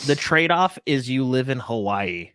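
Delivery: slow, faintly disdainful delivery. Real, not acted. Weighing up island life to co-hosts, mild disdain. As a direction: say it slowly with a touch of disdain. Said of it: "like, with disdain".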